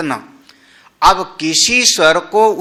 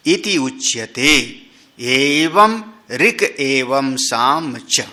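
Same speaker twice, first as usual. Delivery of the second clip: slow, louder measured recitation; sutra recitation; 3 dB louder, slower than usual. Shown as a demonstration. Teacher reading the commentary aloud to the class, slow recitation. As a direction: intone the Sanskrit text word by word.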